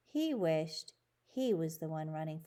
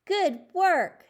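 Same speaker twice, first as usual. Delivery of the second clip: loud praise; 11 semitones higher, 11 dB louder than usual. Acted. Teacher praises after cheers.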